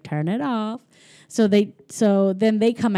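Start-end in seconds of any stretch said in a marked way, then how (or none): 0.0-0.8 mild scolding mom. Retold or imitated. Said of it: "And she's like".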